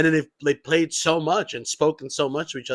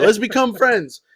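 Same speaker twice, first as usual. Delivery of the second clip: higher, louder eager nerd; geeky gamer voice; 8 semitones higher, 8 dB louder than usual. Retold or imitated. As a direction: chirp it like a gamer making friends. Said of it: "I sound like such a fucking".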